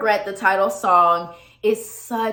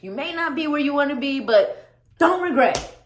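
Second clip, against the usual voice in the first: high, quick pep talk to herself; hammed-up self-encouragement; 7 semitones higher, faster than usual. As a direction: cheer yourself up like a coach. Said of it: "But then I'm like".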